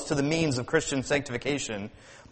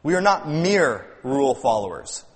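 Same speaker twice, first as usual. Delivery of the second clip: MERE leaned on before "rule followers"; stressed MERE, setting it apart. Real, not acted. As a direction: put the emphasis on the word MERE. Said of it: "that emphasis on that word".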